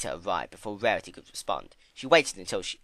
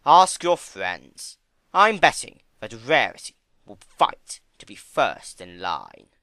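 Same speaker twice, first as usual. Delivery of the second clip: slow, much louder, sly challenge; sly Discord; 9 dB louder, slower than usual. Acted. Discord daring Fluttershy to ask friends, slow, loud and sly. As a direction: taunt her, drawn out.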